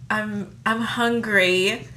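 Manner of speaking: put-on slow, lightly done British accent like Rachel Weisz; a hint of Rachel Weisz's British voice, drawn out slowly; Rachel Weisz impression. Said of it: "that was my, um, Rachel Weisz impersonation".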